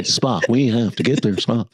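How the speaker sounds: a hint of a captain pleading; Star Trek captain. Comic imitating captain urging Spock, mock urgent.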